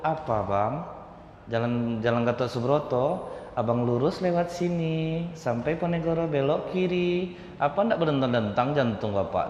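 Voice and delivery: a woman flirting while giving directions; flirtatious directions. Shown as a demonstration. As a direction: tease him sweetly as you point the way. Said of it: "Tapi kalau sempat gini, Bu, caranya".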